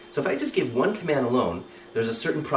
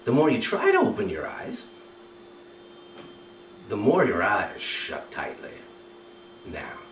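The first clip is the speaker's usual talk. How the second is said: hypnotic suggestion. Shown as a demonstration. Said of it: "here it is again".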